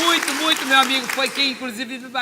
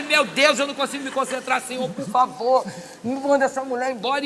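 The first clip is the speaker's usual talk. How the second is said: exasperated pleading; 2 semitones higher, 7 dB louder than usual. Retold or imitated. Praying to be rid of the noisy woman, exasperated pleading. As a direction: beg God with comic exasperation. Acted desperate prayer amid the babble.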